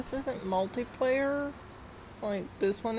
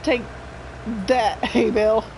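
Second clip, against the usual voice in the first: mock triumph; 6 dB louder than usual. Gloats at hay bale in game.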